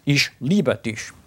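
Ich liebe dich said slowly; slow German demo; German phrase. Shown as a demonstration. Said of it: "I love you".

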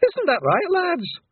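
slow, high, loud plea; desperate yell. A narrator's reading. Rob Anybody denying the charges, desperate loud yell.

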